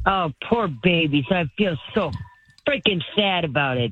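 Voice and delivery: mock sympathy for the rich; sarcastic. Real, not acted. Caller scoffing at hurt millionaires, sarcastic. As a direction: lay on the fake pity, unhurried. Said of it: "I'm picking up sarcasm in your voice".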